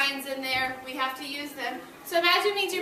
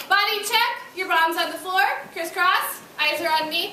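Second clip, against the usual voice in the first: classroom command; 3 semitones higher, 3 dB louder than usual. Real, not acted. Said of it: "calling class to order".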